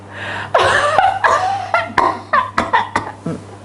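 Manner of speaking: high comic wail dying away; hammed-up crying; mock sobbing. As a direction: imitate someone bawling, very high. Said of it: "Dia nangis terus".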